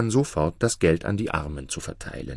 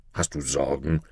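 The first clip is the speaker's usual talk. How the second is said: softer, lower, gently worried; a merchant asks Maruf, lightly concerned; 6 semitones lower, 5 dB quieter than usual. A narrator's reading. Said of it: "erkundigte sich ein Kaufmann besorgt".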